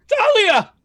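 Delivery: high frantic shout of her name; high panicked yelling of the name; calling out. Acted. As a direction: yell the name, desperate. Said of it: "And he's like".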